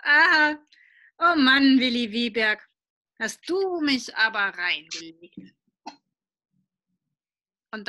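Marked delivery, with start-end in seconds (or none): 0.0-5.5 amused father. Acted. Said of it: "Papa lacht nur und sagt".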